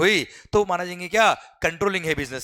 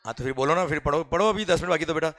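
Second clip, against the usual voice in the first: normal talking voice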